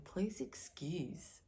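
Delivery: a breathy whispered "please excuse", slow and hushed. Retold or imitated. Viewers imagined muttering an excuse, whispered slowly. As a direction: hush it like a secret you'd rather not say. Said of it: "some of you might be going".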